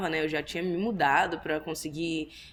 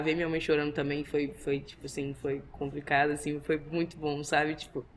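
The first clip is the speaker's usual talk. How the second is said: emotional; 5 semitones lower, 4 dB quieter than usual. Real, not acted. Emotional memory of mother crying.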